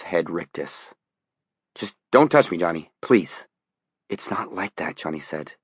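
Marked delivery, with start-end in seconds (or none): 1.7-3.4 frightened plea. Acted. Reporter pleads in fear. 4.1-5.0 barely audible. Acted. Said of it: "or tried to".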